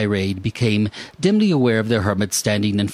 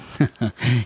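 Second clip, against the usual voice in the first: chuckle; 3 semitones higher than usual. Acted. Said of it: "He chuckled to himself".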